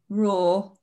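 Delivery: token lion-king roar; half-hearted roar. Pretend. Contestant acting out a lion king for a quiz, half-hearted roar. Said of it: "do an impression of a famous king".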